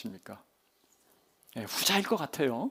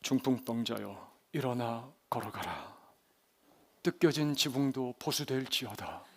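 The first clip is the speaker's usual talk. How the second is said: low, soft, solemn pronouncement; hushed, mystical miracle-worker; mysterious voice; 5 semitones lower, 7 dB quieter than usual. Acted. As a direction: intone it like a divine command. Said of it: "신비로운 음성으로".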